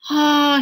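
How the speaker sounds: a wistful, drawn-out ah; longing sigh. Acted. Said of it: "he sighed".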